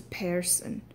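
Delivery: "person" said as PAIR-son, the Irish way; Irish-accented "person" with an AIR vowel. Shown as a demonstration. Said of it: "when it goes into an Irish accent".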